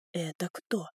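hushed whisper into her ear. Acted. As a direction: breathe it, barely voiced. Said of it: "прошептал мне на ухо Ю".

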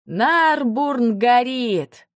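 slow, drawn-out alarmed shout; alarmed cry. A narrator's reading. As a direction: call it out in horror. Dragon announces city burning.

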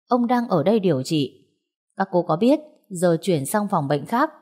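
understated, measured sternness; calmly stern. Acted. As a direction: keep an even voice with a serious edge. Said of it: "thanh âm rất bình thường nhưng lại mang một vẻ nghiêm nghị".

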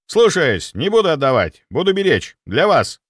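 loud, high, eager military report; zealous soldier. Acted. Security chief vowing loyalty, loud and eager. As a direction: overeager servant. Sviridov obeys.

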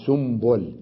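سنبل pronounced "sumbul"; nun turned to mim. Shown as a demonstration. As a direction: say سنبل with m instead of n. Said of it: "تقلب النون إلى ميم".

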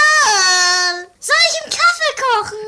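high, loud yell across the room; loud shout. Acted. Detective yells at Wall to wake him.

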